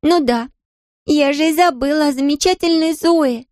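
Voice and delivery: high, dripping mock praise; sarcastic. A narrator's reading. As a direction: sneer at the wonderful Zoe. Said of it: "с сарказмом откликнулась Мэри".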